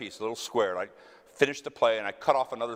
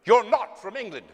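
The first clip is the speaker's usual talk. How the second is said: lady's surprise; 9 semitones higher, 7 dB louder than usual. Retold or imitated. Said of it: "She went".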